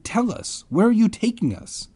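shrill-pitched mock fear; panicked kid. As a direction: beg them in mock panic. Narrator voicing terrified kid.

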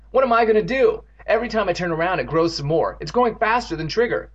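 distressed cry. A narrator's reading. Boy overwhelmed by the growing blood, crying out. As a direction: plead at a loss. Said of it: "Evan cried".

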